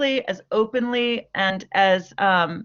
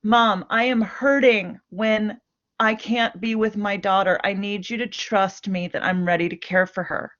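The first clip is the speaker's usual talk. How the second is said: gentle owning statement. Shown as a demonstration. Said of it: "I want you to try to hear the difference".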